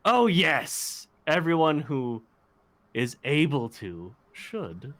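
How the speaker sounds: a snide little dig, lightly voiced. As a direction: needle Helena with a smug aside. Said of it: "snidely looking towards Helena and say".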